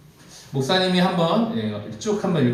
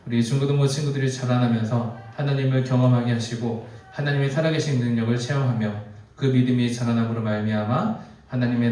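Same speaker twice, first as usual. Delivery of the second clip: measured, even-pitched prayer; 2 semitones lower than usual. Real, not acted. Pastor praying for the youth group before the sermon, prayer. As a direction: lead the congregation reverently in prayer.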